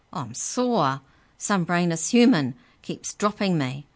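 loud, high, sarcastic creature voice; high squeaky sneer. Acted. The book elf mocks Trent, squeaky and loud. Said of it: "The book's voice was high and squeaky".

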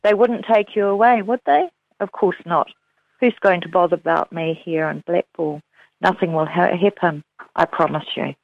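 calm, measured novel reading; reading aloud. Acted. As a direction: read the passage steadily, like an audiobook. Author reads the ending passage.

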